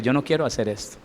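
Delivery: retold tearful plea. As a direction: whisper the plea like past tears. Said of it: "Lloraba yo, diciéndole".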